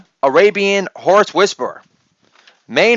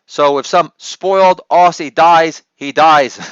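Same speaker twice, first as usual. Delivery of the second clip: put-on Chinese accent; slower than usual. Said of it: "my Chinese accent".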